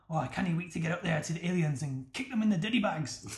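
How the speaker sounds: lightly put-on, shaky-grasp Scottish accent; half-convincing mock Scottish accent; bad Scottish accent. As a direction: imitate a game character's poor Scottish accent. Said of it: "a really pish Scottish accent".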